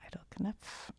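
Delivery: "Knopf" tried with a K before the N; K sounded. Real, not acted. Host trying the name again, sounding the K in "Knopf". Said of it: "It's probably a silent K".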